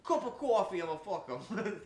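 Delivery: high, loud mock country accent, laughing. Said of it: "I make 'em sound like they're country".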